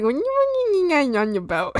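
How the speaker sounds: high, garbled silly whine falling off; mock frog babble. Screaming at everyone with the frogs, mock babble. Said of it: "I was like".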